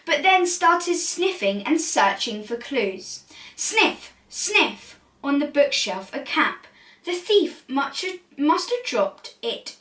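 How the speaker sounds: lively storybook read-aloud; animated rhyming picture-book narration; reading to children. A narrator's reading. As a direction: read it like bedtime story time.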